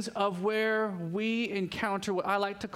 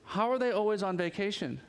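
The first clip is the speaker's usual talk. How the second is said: incredulous scroller; 3 semitones higher than usual. Retold or imitated. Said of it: "and they're like".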